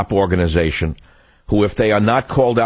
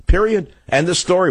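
heated rant; 8 semitones higher than usual. Real, not acted.

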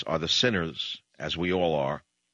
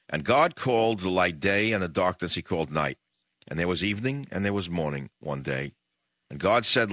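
booming biblical narration; 3 semitones lower than usual. Acted. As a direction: read Genesis like a sermon, weighty and measured. Reads Genesis aloud.

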